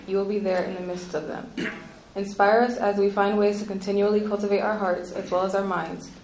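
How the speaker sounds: earnest spoken prayer. Real, not acted. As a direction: pray aloud for the gathering. Leads the opening prayer.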